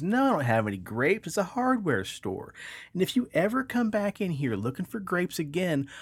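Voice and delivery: hammed-up shopkeeper losing it; furious manager. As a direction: lay down a final threat. Joke, manager threatens.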